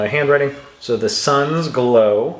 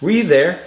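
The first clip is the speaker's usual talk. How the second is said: "Were you there?" asked higher, peaking on you; questioning intonation; 5 semitones higher, 4 dB louder than usual. Shown as a demonstration. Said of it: "Sounds like a question".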